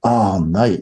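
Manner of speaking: ordinary talk, nothing marked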